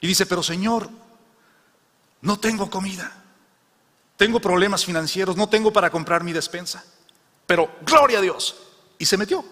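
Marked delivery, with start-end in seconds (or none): 0.3-8.6 put-on lightly higher, humble old woman's plea; a lightly voiced elderly woman praying.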